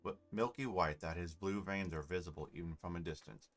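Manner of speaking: measured scene-setting narration; story narration. A narrator's reading. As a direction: read it like a fantasy storyteller. Reads game narration aloud.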